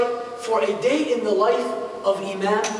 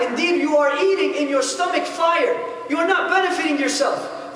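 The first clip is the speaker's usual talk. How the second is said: mock outrage in a higher pitch, pressing each question; retold angry yelling; 5 semitones higher than usual. Shopkeeper scolds the thief who stole from his daughters, indignant and higher-pitched. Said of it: "he saw this man yelling at him".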